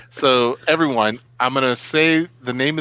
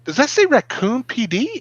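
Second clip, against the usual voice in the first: high, incredulous question; retold astonishment; 11 semitones higher than usual. Reacting to a friend's traffic pictures, mock-amazed. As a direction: lift the pitch sharply in disbelief. Retells spotting a film set.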